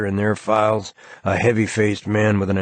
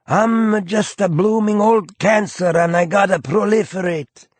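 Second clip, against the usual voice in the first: higher, folksy aw-shucks charm; disarming grin; 12 semitones higher, 4 dB louder than usual. A narrator's reading. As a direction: grin and play innocent. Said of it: "he says with a disarming grin".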